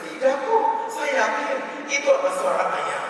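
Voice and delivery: high-pitched stubborn denial; acted protest, starting very high; insistent wife. Wife refuses to give in to husband, insistent. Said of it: "Si istri berkata".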